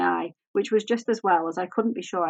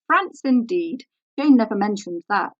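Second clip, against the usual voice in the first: scornful surprise; 3 semitones higher, 7 dB louder than usual. Acted. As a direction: scoff at the news, drawing it out. Grace snorts at French origin.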